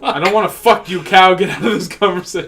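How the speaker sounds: playful outraged yell; mock shout. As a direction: bark it at the cow, half joking. Mock telling a cow off.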